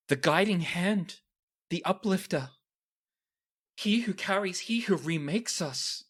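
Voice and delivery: high, reverent chant of titles; zealous cultist reciting her god's names; devout cultist litany. Acted. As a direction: recite the holy names in rapt awe.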